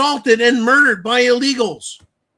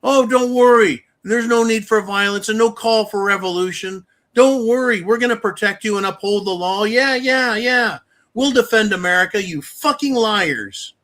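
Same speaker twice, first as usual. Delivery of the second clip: mocking lying politicians; 2 semitones higher than usual. Politicians lying to voters, mock soothing voice. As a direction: sneer out the politicians' fake comfort. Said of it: "pissing down our backs and saying".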